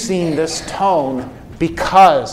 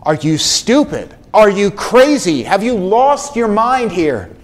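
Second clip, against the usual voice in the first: exasperated retort; 3 semitones higher than usual. Retold or imitated. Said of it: "respond with something along the lines of".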